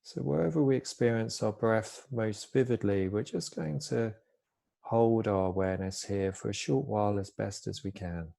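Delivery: calm, unhurried body-scan guidance with long pauses; soft-spoken mindfulness teacher, easing each phrase down; guided meditation. Real, not acted. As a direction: gently guide listeners into stillness, pausing between phrases.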